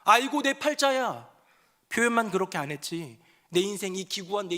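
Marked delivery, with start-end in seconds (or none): 0.0-1.3 high, loud mock lament; mock wail. Preacher acts out a despairing prayer, hammed-up wailing lament. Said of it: "내 인생을 한탄하고".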